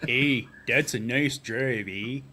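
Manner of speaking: slow, hammed-up Canadian accent; drawn-out Canadian eh. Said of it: "Canadian accent".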